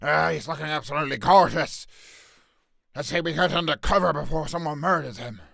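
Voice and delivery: lightly voiced Mad-Eye; Mad-Eye Moody impression. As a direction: growl it like a paranoid old auror. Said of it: "Mad-Eye Moody".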